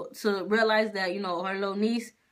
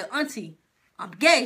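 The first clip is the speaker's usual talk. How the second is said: firmer repeat. Retold or imitated. Retelling coming out to auntie a second time, firmer.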